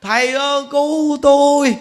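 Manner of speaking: high, loud mock cry for help; father overwhelmed, calling loudly to the monk. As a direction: call out to the master for rescue. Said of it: "ông la lên".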